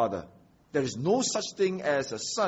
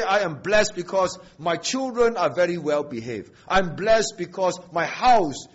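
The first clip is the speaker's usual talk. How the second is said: raised, louder mock bragging about possessions; mock boasting; 2 semitones higher, 5 dB louder than usual. Preacher mimicking a believer boasting of house and children, emphatic. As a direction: play someone listing their good fortune with big emphasis.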